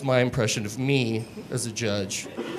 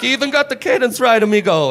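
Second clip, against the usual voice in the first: friend's praise; 7 semitones higher, 5 dB louder, faster than usual. Retold or imitated. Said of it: "it's like".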